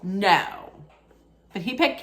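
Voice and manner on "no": written no. Retold or imitated. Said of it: "I have written".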